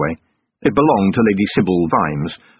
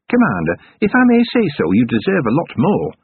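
put-on higher, eager young dwarf sergeant; dwarf sergeant's voice; 7 semitones higher than usual. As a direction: pitch it up as the keen dwarf reporting.

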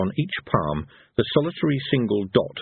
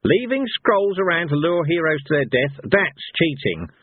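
raised-pitch indignant accusation; growled retort; 7 semitones higher than usual. A narrator's reading. Cohen accuses the gods of cheating, growling. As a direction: throw the accusation back, growling. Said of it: "Cohen growled".

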